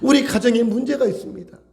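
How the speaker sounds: urgent plea to the Lord; crying out in prayer. Shown as a demonstration. Believer bringing family troubles to the Lord, crying out. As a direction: press the prayer out, imploring. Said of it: "그때 우리는 부르짖어야죠".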